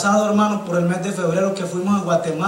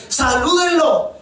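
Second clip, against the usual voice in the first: higher, slow urging; coaxing father; 8 semitones higher, 3 dB louder, slower than usual. Retold or imitated. A father urges his shy children to greet the preacher, higher. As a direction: coax the shy kids to greet.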